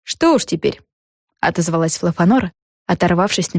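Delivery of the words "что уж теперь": lightly voiced higher girl voice; a slightly raised, offhand character voice; resigned friend. A narrator's reading. Fluffanora answering over her cake, lightly raised girlish voice.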